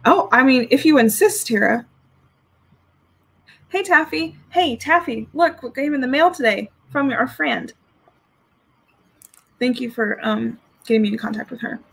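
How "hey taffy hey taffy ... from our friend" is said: higher, lilting call for attention; calling to Taffy. Real, not acted. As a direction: call out to Taffy in a raised pitch.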